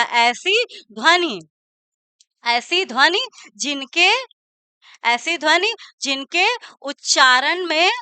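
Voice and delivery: word groups split by long pauses. Shown as a demonstration. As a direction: dictate the definition piece by piece. Teacher dictates definition for notes. (धीरे-धीरे रुक-रुककर परिभाषा लिखवाते हुए)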